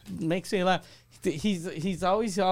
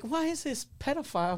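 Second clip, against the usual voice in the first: mock outrage; 8 semitones higher, 5 dB quieter than usual. Mock outraged audience member.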